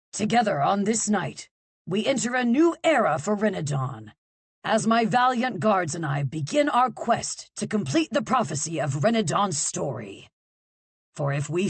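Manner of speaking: king addressing the crowd, booming. Acted. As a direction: boom it across the hall. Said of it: "The king's voice boomed".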